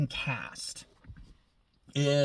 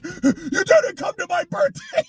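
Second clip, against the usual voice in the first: higher, rising whiny parody; mock petulant line; 12 semitones higher than usual. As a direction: sulk it like a child accusing dad. Mocking the character.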